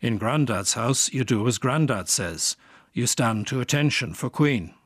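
lightly voiced Yorkshire grandmother; a hint of a stern Yorkshire gran; Yorkshire accent. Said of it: "In her Yorkshire accent".

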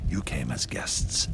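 slow, low, understated hiss; lightly hissed, spaced-out reproach; hissed accusation. Acted. King reports the queen's accusation, an understated hiss. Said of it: "she hisses".

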